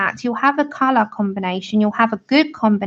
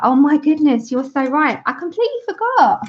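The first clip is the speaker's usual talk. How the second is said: higher, hammed-up sheepish confession; mock sheepish; 4 semitones higher than usual. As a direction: play innocent, lightly. Mock-sheepish retold reply.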